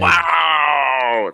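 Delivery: loud, high drawn-out wow; astonished wow. Real, not acted. Player amazed the rogue wave did so little, astonished. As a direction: belt out an amazed, stretched wow. Reacts to a lucky roll.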